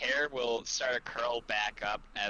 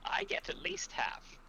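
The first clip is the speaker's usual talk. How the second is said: high, slow, airy dearie voice; high-pitched dainty scolding, thinning to a whisper; Fanny; 10 semitones higher, 3 dB quieter, slower than usual. Acted. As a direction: chide sweetly in a drawn-out falsetto. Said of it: "Fanny will go over to V and will say".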